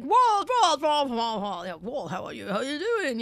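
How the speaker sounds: put-on mumbled Australian accent, starting very high and loud; Australian mumble. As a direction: mimic Rupert Murdoch's Australian mumble calling Walt. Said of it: "he mumbles in his Australian accent".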